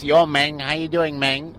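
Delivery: lightly put-on Mexican accent; mock Mexican accent. Shown as a demonstration. Co-host demonstrating how ethnicity is heard, mock Mexican accent. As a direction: imitate a Mexican accent, roughly. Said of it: "When you hear a Mexican speak".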